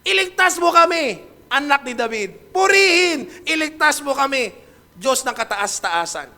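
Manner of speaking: high, loud cry of praise and pleading; crowd crying out. Acted. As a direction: shout praise while begging to be saved. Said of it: "Humisigaw sila".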